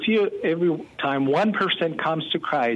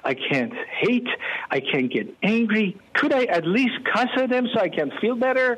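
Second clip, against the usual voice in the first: frustrated plea; 6 semitones higher than usual. Retold or imitated. Retold pleading question to God.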